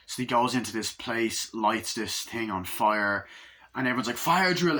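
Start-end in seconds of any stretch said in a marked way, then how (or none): 4.2-4.8 mock calling out. Retold fire drill, calling out.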